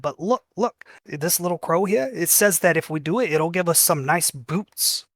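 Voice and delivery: hint of a child letting slip a secret; sneaky goblin kid. Goblin kid explains to Inchi.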